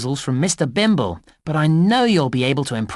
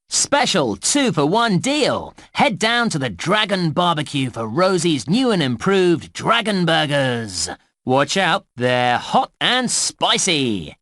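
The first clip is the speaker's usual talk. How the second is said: slow, drawn-out advert read; promotional announcer. Acted. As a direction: sell it like a park tannoy ad, stretching key words. Reads a park food advert.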